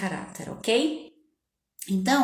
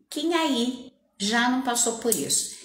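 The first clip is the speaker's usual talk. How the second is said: ordinary talk, nothing marked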